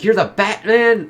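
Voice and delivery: imitating a thug's shock; mock stunned question. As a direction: act amazed at who he's facing. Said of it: "he's like".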